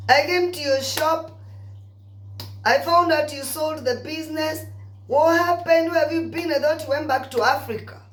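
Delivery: put-on high, surprised gush at seeing an old friend again; excited greeting. Greeting a long-lost friend outside the shop, high and excited. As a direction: pitch it up, overjoyed to see her.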